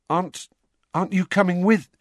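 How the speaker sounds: a touch anxious, stammering; nervous question. A narrator's reading. Harry asking Mr Weasley to come in, a touch anxious. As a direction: hesitate at the door.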